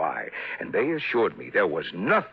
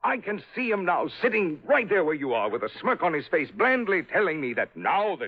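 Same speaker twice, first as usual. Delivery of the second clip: rising outrage; 6 semitones higher than usual. Acted. Father raging about son-in-law.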